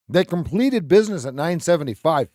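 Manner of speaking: auction call. Real, not acted. Calling the sale at auction.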